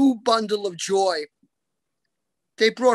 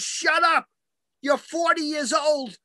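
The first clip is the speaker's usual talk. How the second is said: higher, exasperated mock scolding; mock snap; 6 semitones higher than usual. Mama snapping at her forty-year-old son, mock exasperated. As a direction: snap at him like a fed-up mother.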